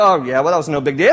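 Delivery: dismissive shrug. Acted. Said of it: "don't read this story and go".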